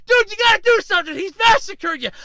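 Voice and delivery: hammed-up excited urging; urgent onlooker. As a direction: imitate a bystander yelling at a friend. Acts out an onlooker urging the player.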